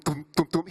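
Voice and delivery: low thumps of a heartbeat; imitated heartbeat. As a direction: imitate a heartbeat through a stethoscope. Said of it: "he didn't hear thump".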